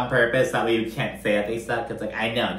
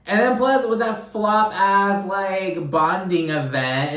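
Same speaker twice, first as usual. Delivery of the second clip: excited rant; 8 semitones higher, slower than usual. Real, not acted. Ranting about the flop event.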